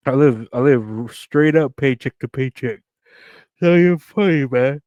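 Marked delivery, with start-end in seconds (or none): 3.6-4.8 laughing, high and loud. Real, not acted. Joking to viewers about living paycheck to paycheck, laughing. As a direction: crack up through the words. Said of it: "I'm crying here".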